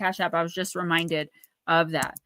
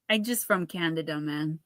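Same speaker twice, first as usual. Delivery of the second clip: soft, lower attempt at a French Canadian accent; mom's boyfriend; 5 semitones lower, 6 dB quieter than usual. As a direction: lightly imitate a laid-back French Canadian accent. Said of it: "I can't even do the accent".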